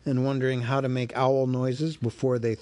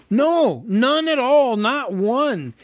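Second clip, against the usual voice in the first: high, louder quick denial; hasty hobbit; 11 semitones higher, 7 dB louder, slower than usual. Acted. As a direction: take it back in a rush. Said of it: "he said immediately afterwards".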